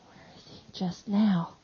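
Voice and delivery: hushed, urgent whisper. Acted. Mary presses quietly.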